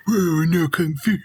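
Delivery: high, awed "Whoa, I know Kung Fu"; breathless awe; Neo impression. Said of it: "she really did the Matrix".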